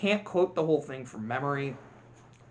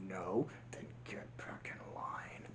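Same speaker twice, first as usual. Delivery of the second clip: slow hushed order; villain ordering the ant back; menacing whisper; 9 semitones lower, 19 dB quieter, slower than usual. Retold or imitated. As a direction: hiss the command. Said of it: "Hopper says".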